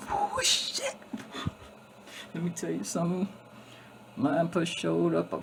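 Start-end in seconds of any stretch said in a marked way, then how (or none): 0.1-0.9 startled exclamation. Real, not acted. Surprised outburst mid story.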